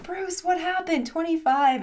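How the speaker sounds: high, loud, drawn-out mock disbelief; mock dismay. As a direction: playfully act shocked at a pupil's poor score. Teasing pupil over a staged miss.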